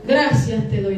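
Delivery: low, pompous prayer voice; mock-pious low delivery; self-righteous religious man. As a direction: pray smugly like a proud Pharisee. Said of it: "la oración del religioso".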